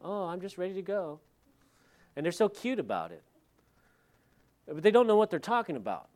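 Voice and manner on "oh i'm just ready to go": flippant. Retold or imitated. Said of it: "they'll just be so flippant, like".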